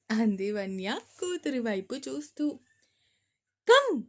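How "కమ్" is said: serious. A narrator's reading.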